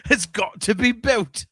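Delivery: laughing through the words; giggling while insisting; laughing mock insistence.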